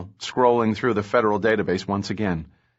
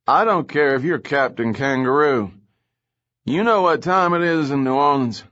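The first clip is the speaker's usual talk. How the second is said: grumpy, raised and louder retort; irritated; 5 semitones higher, 3 dB louder than usual. Acted. Woken lieutenant grumbles at the late caller, loud and annoyed. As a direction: bite back at being woken.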